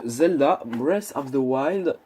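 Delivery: slow English title in a thick French accent; mock-proud French accent on an English name. Real, not acted. A French vlogger reads the game title with his French accent. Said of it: "avec mon superbe accent".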